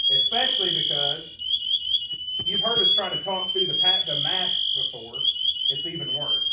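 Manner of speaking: yelling over a blaring alarm; shouting over alarm. Shown as a demonstration. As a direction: shout above a loud beeping.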